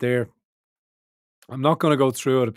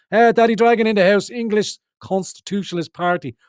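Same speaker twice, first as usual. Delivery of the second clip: higher and louder, hyped shout-out; big welcome to the guest; excited greeting; 8 semitones higher, 5 dB louder than usual. Real, not acted.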